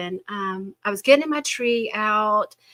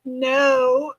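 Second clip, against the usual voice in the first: imitated child refusal; 4 semitones higher, 4 dB louder than usual. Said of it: "And she's like".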